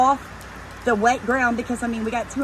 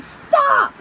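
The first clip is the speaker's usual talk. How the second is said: sudden high shouted stop; much higher, louder command shout; teacher stop voice; 5 dB louder than usual. Retold or imitated. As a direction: halt a stranger like a teacher halting a kid. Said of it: "I'm doing my whole teacher".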